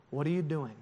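God asking quietly and kindly; gentle God. Acted. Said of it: "We know that's God's voice".

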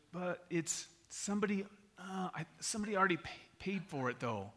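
hesitant, stumbling cashier; acted tentative explanation. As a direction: break it up uncertainly, trailing off softly at the end. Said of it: "real tentative and a little bit like".

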